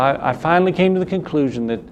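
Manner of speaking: southern accent slipping into a quote; quoting with a light Southern accent. Real, not acted. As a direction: let a little Southern accent slip out. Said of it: "there's my southern accent again".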